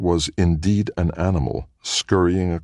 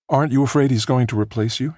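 lightly voiced worried wife; 9 semitones higher, faster than usual. Felicia's voice read higher.

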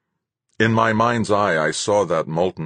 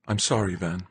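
gentle; 3 semitones higher, 4 dB quieter than usual. Acted. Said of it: "said gently".

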